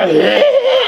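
high, brief wordless noise of disapproval; disapproving vocal reaction. Shown as a demonstration. Man showing the wrong tone for a compliment, disapproving noise. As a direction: give a short high sound that means not good. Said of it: "and that's not a good one".

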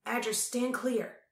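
a firm, steady command; order. A narrator's reading. Tal orders his spirit shadow back, firm and slow. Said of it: "Tal ordered".

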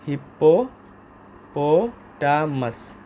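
হিপ্পোপোটামাস drawn out slowly, each syllable apart. Shown as a demonstration. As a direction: spell out হিপ্পোপোটামাস in separate slow syllables. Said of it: "এভাবে আপনারা syllable maintain করে পড়তে পারেন". (হিপ্পোপোটামাস ধীরে ধীরে syllable ভেঙে উচ্চারণ)

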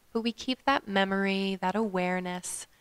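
calm meditation guide with long pauses; guided meditation. Acted. Yoga teacher guiding listeners to follow their breath, guided meditation. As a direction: lead them gently through the breath, leaving space.

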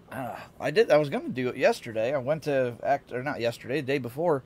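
groggy just-woke-up voice; sleepy morning voice. Real, not acted. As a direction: talk like you just rolled out of bed. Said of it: "Dude, I sound sleepy".

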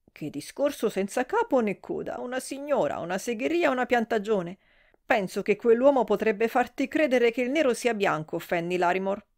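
flustered matron sputtering out her outrage; scandalised older lady, shrill with shock; shocked gossip. Acted. Mrs Worthington scolding Fanny.

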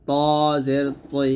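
heavy t, rounded before the i in "ত জের তৈ"; thick to. Shown as a demonstration. Teacher demonstrating the thick letter, heavily pronounced "ত জের তৈ". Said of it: "মোটা হবে".

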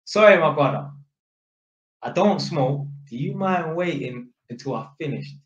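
measured, courteous request; composed polite appeal; calm and polite. Retold or imitated. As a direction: ask calmly, keeping it friendly. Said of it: "I just said to him calmly and politely".

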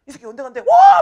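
loud, high jeering into a whoop; rowdy classmates making fun, imitated; mocking jeer. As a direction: shout it mockingly, then burst into a huge cheer. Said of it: "계속 놀리는 거야".

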